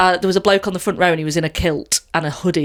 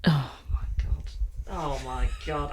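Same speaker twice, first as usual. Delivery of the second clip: groaning; 5 semitones lower, 13 dB quieter than usual. Real, not acted. Groaning at a pun.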